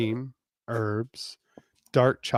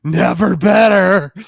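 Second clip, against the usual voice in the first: high, loud bravado; loud bravado cry; loud cheerful cry; 8 semitones higher, 14 dB louder than usual. Acted. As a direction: call out with forced cheer. Kate answers bravely in dark.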